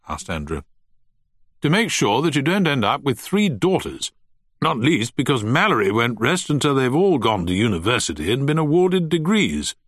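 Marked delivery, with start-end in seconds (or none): 1.6-9.7 raised, jovial stuffy host; teasing old gentleman. Acted. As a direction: tease the guests, pompous and jolly. Turner's teasing toast.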